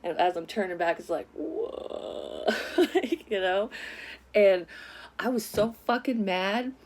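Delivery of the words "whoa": high, drawn-out mock slow-mo "whoa"; slow-motion whoa. Turning back after being smacked, slow-motion imitation. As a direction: imitate a slowed-down reaction. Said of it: "almost like in slow motion".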